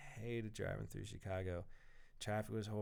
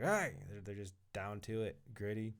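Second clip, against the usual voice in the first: bad imitation of a New York accent; gritty New Yorker, hammed-up New York accent. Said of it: "That's a terrible New York accent".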